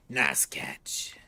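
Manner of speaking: low unvoiced whisper. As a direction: breathe it under your breath. Partner whispers beside you.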